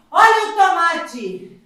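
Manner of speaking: loud, slow sing-song vendor call; rhyming market barker. Acted. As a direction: holler the tomatoes across the market. Loud vendor call vs quiet repeat.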